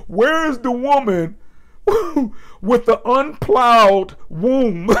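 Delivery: high, laughing paraphrase; barely holding it together; high laughing words, slowing on "unplowed womb"; laughing through it. Retold or imitated. Paraphrasing while cracking up.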